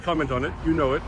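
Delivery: talking while chewing gum. Real, not acted. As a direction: speak around a wad of gum. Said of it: "I have gum in my mouth".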